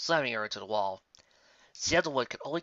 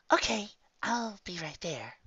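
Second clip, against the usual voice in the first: higher, slow answering call; Sandalwood voice; 8 semitones higher, slower than usual. Acted. Sandalwood answers her coworker, higher and slow. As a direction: sing back from the back room. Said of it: "answered Sandalwood".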